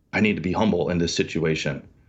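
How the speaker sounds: ordinary delivery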